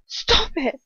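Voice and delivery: high-pitched screamed plea. A narrator's reading. Hermione to Ron's tormentors as he chokes, screaming. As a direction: cry out to make them stop. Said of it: "I scream".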